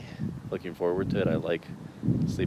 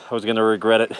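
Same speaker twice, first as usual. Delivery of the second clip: raised voice over the wind; calling it out loud; loud outdoor voice; 2 semitones higher, 11 dB louder, faster than usual. Real, not acted. Said loudly outdoors.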